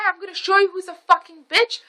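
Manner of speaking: high, loud mock rant; retold screaming. Mom threatens the driver, high mock screaming. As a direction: imitate an enraged mom yelling. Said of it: "I'm screaming at this guy".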